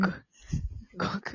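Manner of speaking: gulping water while talking; swallowing mid sentence. Real, not acted. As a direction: talk between swallows of water. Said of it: "水飲み、".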